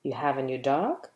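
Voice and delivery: low start with DOG swooping sharply up; question intonation. Shown as a demonstration. Teacher showing you can ask a question with it, rising intonation. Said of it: "you can ask a question with it".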